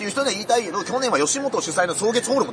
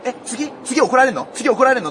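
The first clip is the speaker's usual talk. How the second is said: raised-voice mock alarm, building; louder, higher imitated outburst; retold loud questioning; 4 semitones higher, 3 dB louder than usual. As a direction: blurt it out too loudly, imitating him. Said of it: "でっかい声で言って".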